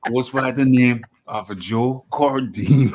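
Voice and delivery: jokey Welsh accent, breaking into laughter; laughing through a Welsh impersonation. Shown as a demonstration. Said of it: "for that Welsh impersonation".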